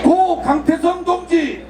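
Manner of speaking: slow, drawn-out call of names; solemn roll call. Real, not acted. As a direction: call each name slowly for the crowd to repeat. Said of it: "한 분 한 분 말씀드리겠습니다". (느리게 부르는 추모 호명)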